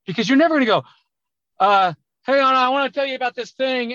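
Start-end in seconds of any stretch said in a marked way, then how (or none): 2.2-3.9 loud, high, confident delivery; pitched up and loud, no hesitation; louder talk. Shown as a demonstration. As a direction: project it like you mean it. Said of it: "If you talk at twenty percent higher volume".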